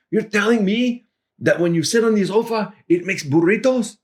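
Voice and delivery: can't believe it, grinning; amused disbelief. Retold or imitated. Javier repeating the sofa burrito line in disbelief. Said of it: "he started laughing and saying".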